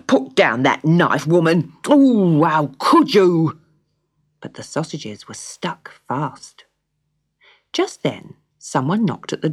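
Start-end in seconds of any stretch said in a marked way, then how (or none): 0.1-3.6 loud, panicked plea; alarmed protest. Acted. Cedric loudly protesting as his wife grabs a knife. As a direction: back away from the knife in alarm.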